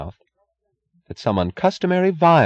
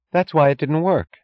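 higher-pitched wife, emphatic; bitter realization; 9 semitones higher than usual. A narrator's reading. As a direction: land the discovery sharply. Wife's bitter realization, set against his question.

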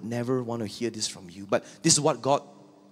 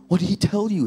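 much higher question; defiant Saul; 11 semitones higher, 4 dB louder than usual. Acted. Saul asking Samuel, high and cocky. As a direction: toss back the question.

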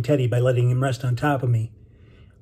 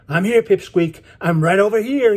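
high, raised call in reply; calling back; 7 semitones higher, 4 dB louder than usual. A narrator's reading. Benny answers the boy across the waves, calling back. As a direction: answer from a distance, pitched well up. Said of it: "he answered back".

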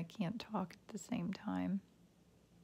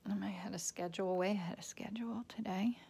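breathy whisper, breath held; holding breath. Real, not acted. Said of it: "I always hold my breath".

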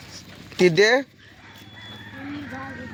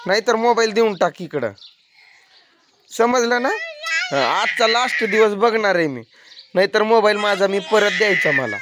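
higher, insistent telling-off; stern scolding; 4 semitones higher than usual. Real, not acted. Mother warning kids to give back the phone, stern.

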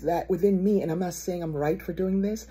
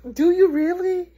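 high, loud mock-doubting question; high-pitched, teasing challenge; 11 semitones higher, 6 dB louder than usual. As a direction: squeal it in playful disbelief. Mocking doubt at prayer promise.

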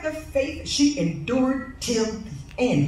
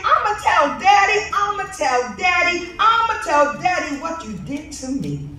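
put-on child's scream; 4 semitones higher than usual. Little girl yelling at her big sister, mock scream. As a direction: shout the threat like a hurt little kid. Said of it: "I screamed".

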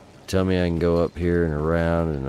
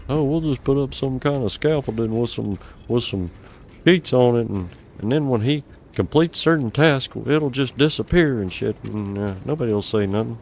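mocking voice; 7 semitones higher than usual. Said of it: "mocking the game designers".

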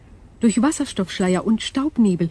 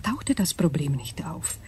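alien whisper, breathy and hushed; eerie whisper; 3 semitones lower, 6 dB quieter than usual. Acted. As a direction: breathe it like an unearthly being.

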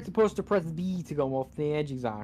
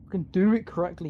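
angry snap; 4 semitones higher, 4 dB louder than usual. Real, not acted. Yelling at game controls.

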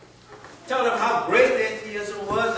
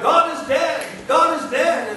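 loud, higher mock shout of a heckler; retold heckler's shout; 6 semitones higher, 6 dB louder than usual. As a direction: hurl it at the preacher like a heckler. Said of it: "someone once shouted".

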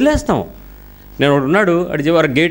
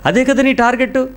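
higher, pressing, sarcastic edge; heated rebuke; 5 semitones higher than usual. Real, not acted. Preacher rebuking parents who send children abroad, heated. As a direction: needle the parents about their goals.

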